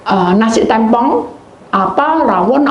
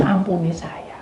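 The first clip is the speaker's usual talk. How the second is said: softer, breathy plea for forgiveness; a guilty whispered confession; whispered prayer; 7 dB quieter than usual. Retold or imitated. Private prayer of apology.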